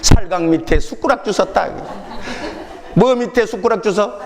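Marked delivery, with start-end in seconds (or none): 0.0-1.7 Jeolla saying. Retold or imitated. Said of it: "전라도 말로 이렇게 표현했대".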